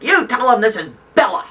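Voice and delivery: imitated blunt, commanding phone voice; mock no-nonsense order; Bella Abzug. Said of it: "a woman to mince words".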